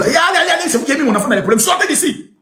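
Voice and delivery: mock-angry parent chasing people out. Acting parent chasing off child's friends. (parent fâché qui chasse tout le monde)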